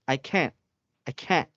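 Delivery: can't repeated with no audible final T. Shown as a demonstration. Teacher testing if student hears T, can't with T dropped. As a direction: stop can't short before the T sounds. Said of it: "Can you hear the letter, letter T?".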